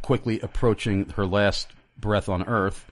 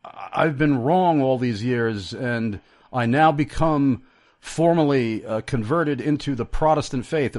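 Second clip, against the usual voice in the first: mock sudden conversion; 5 semitones higher, 3 dB louder than usual. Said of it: "like a bolt of lightning hit her".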